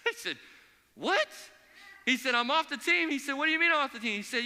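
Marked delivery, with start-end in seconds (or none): 0.9-1.3 sharp high startled what; jolted into disbelief; shocked. Retold or imitated. Player cut from the team blurts out a high, loud shocked what. 2.4-3.1 disbelief. Retold or imitated. Player told he's off team. 3.3-4.2 indignant disbelief. Retold or imitated. Player protests being cut.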